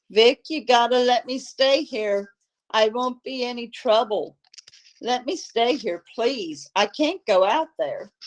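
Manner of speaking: put-on a touch of a scared child begging; frightened pleading. Maggie begging Vic to let her stay, mildly frightened. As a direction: plead to stay, voice lifted with fear. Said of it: "like those of a frightened child".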